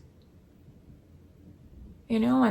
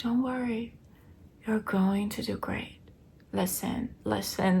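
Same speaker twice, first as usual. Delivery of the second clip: calm reassurance. Retold or imitated. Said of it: "she was so calm".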